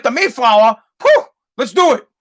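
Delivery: psyched and ready to go; pumped. Retold or imitated. Dad about to board the Mayflower, pumped. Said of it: "I was pumped".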